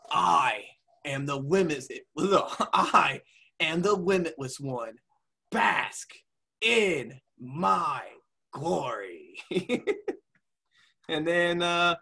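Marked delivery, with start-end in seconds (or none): 0.1-9.4 halting, grandiose wrestler promo; lightly imitated wrestler, word by word; Keith Lee. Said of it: "Keith Lee".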